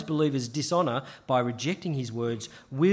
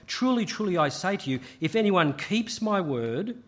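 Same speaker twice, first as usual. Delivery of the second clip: "Truly, truly" lifted high, then weighted and slowed; emphatic quote; 4 semitones higher than usual. Retold or imitated. Preacher quoting Jesus to the congregation, emphatic and slowed. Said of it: "Jesus says very emphatically".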